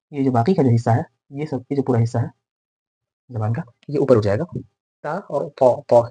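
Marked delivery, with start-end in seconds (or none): 5.6-6.1 पौ with a full-mouthed, heavy sound; full, heavy consonant. Shown as a demonstration. Teacher contrasting two letters, पौ said full and heavy. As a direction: fill out पौ, back of tongue raised. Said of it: "इससे आवाज़ भरी हुई महसूस होगी".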